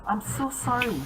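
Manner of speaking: put-on high, apologetic ghost girl; apologize, then greet awkwardly; flustered ghost. Ghost apologizing to the vice principal, high flustered voice.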